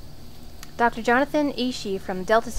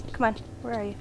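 usual speaking voice

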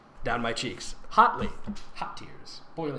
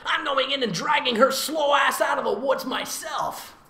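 put-on impatient girl; 6 semitones higher than usual. Reads impatient sister aloud.

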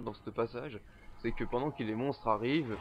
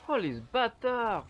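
shaken exclamation; 10 semitones higher, 6 dB louder, much slower than usual. Real, not acted. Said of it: "Comment ils m'ont fait flipper".

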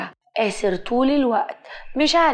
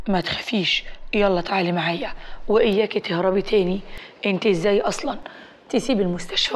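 lightly voiced concerned male rescuer; understated, slightly lowered doctor's voice; protective doctor; 3 semitones lower, faster than usual. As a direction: reassure her, then gently take her to task. Doctor figure reassures, then chides.

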